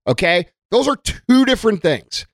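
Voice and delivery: normal talking voice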